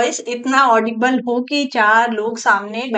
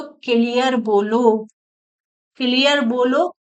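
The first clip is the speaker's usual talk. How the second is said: slowly and clearly, stressing क्लियर; slow, clear speech; slower than usual. Shown as a demonstration. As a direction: speak slowly so every word lands. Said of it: "धीरे-धीरे बोलो".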